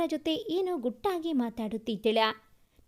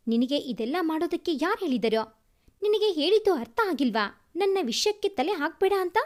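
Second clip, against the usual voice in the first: angry scolding; 3 dB louder than usual. Acted. Husband scolding wife in rage.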